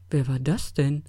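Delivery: astonished question, jumping up at the end; blurted surprise. A narrator's reading. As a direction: let the question slip out in surprise. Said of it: "entfuhr es Max". (überrascht)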